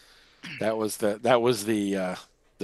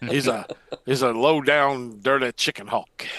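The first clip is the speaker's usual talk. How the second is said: cartoon villain voice.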